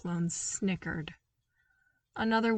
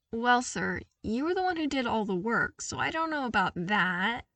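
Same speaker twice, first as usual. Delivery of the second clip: modest; 3 semitones higher, 3 dB louder than usual. Acted. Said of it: "he began modestly".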